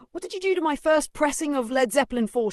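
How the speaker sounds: high, outraged voice of a mad librarian; shrill indignant villain. Acted. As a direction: demand it like a wronged collector. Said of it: "she says".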